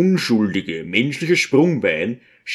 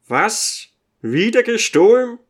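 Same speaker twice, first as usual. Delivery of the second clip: shocked cry; 10 semitones higher than usual. A narrator's reading. Prochonzew hears the bones were stolen again, shocked cry. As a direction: leap up and cry out in disbelief. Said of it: "springt auf und schreit".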